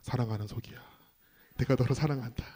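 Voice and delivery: soft, low, tender voice; hushed, low fatherly tenderness; gentle divine voice. Retold or imitated. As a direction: imitate a loving God speaking softly. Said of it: "부드러운 음성은 아니었습니다".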